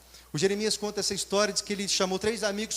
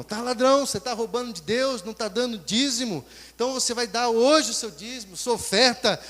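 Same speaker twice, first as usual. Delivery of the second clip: louder preachy scolding; loud insistent scolding; 3 semitones higher, 4 dB louder than usual. Retold or imitated. Worker scolding the man to give his tithe, loud. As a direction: push him hard to pay up.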